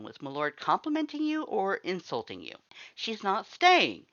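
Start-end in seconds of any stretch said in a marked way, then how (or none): 2.9-4.0 slow, higher growl of refusal. A narrator's reading. Sans growls at the lord, refusing the human. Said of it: "Sans growled at my lord".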